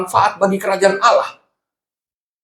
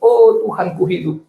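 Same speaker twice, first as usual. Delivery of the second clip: mild retold cry, pitched higher; seruan teriak tiruan; 4 semitones higher than usual. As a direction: call it out higher without real shouting. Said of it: "ibu ini teriak-teriak". (menirukan teriakan ibu dengan nada lebih tinggi)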